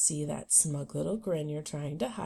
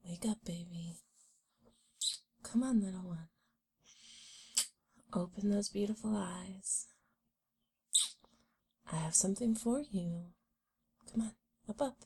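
whispering; 4 semitones higher than usual. Acted. Whispering her awake.

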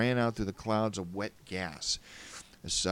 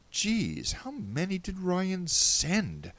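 alarmed; 11 semitones higher, much slower than usual. A narrator's reading. Narrator alarmed at many splicers.

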